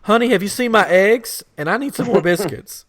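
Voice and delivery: high-pitched mock old-lady pleading; imitated fussy lady. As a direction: imitate a lady fretting over her shopping. Retold lady fussing over groceries.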